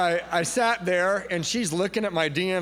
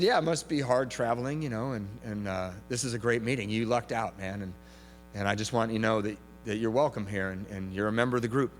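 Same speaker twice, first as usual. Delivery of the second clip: reassuring; 5 semitones lower, 4 dB quieter than usual. Retold or imitated. Sincere reassurance to newcomer.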